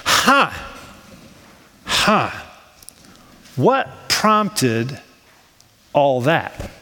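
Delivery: musing with long pauses; puzzled wondering. Acted. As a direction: wonder to yourself, piece by piece. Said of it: "so you think to yourself".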